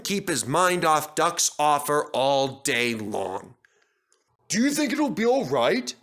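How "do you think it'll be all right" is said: high, eager asking; can hardly wait; anxious excitement. A narrator's reading. Henry pestering Duck about the tenders, high and eager. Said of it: "asked for the umpteenth time".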